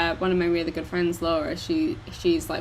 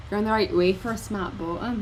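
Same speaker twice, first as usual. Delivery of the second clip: softer, tentative Scottish accent; slight Scottish; 5 dB quieter than usual. Shown as a demonstration. Doing Scottish for one sentence, slight accent. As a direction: attempt one line of light Scottish. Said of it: "a slight bit of Scottish".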